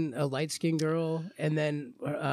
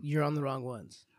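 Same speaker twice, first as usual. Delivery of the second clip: whisper; 3 semitones lower, 5 dB quieter than usual. Real, not acted. Whispered jab at friend.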